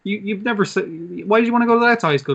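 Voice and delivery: high, fast, incredulous mum; mother scoffing at her son's school choice; indignant mother. Retold or imitated. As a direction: fire it back in a high disbelieving voice. Mother snapping at son.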